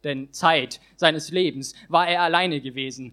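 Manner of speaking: rhythmic rhyming poem performance; slam poem recitation. Acted. Poet reciting his slam text on stage, rhythmic and building. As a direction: perform the verses with rising drive.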